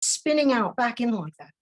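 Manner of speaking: measured spoken-word reading; poem recital. Acted. Poet reading her poem about a woman on the corner, spoken-word delivery. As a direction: read it like a poem, line by line.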